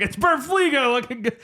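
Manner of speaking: imitating Robin.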